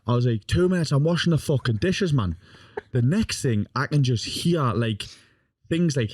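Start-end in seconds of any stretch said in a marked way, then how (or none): 0.5-2.3 higher-pitched, mildly exasperated comeback; retold exasperation. Grandson answering nana from the dishes, mildly exasperated. Acted quarrel, shouting back to nana.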